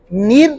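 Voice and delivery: नीर with the ra clipped; wrong niyar. Shown as a demonstration. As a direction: squash नियर into नीर. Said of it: "ये गलत है".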